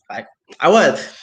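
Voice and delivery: slow, leaned-on "was" with a falling end; stress on WAS. Real, not acted. Insisting she really was the favorite, hitting was. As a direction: she drags out "was" to drive home she was the favorite. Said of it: "Emphasize you".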